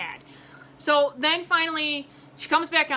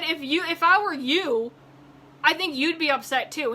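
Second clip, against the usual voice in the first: mildly heated, higher-pitched retold retort; indignant attitude; 4 semitones higher, 3 dB louder than usual. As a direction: answer back with some attitude. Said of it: "we don't need that attitude and that tone".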